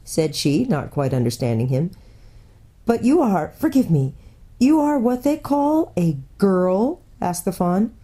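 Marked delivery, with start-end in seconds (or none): 2.9-7.0 a lightly voiced, fussy, polite faun, a bit louder; a nervous little faun probing gently; faun character voice. A narrator's reading. The faun politely quizzes the girl in a fussy, nervous voice.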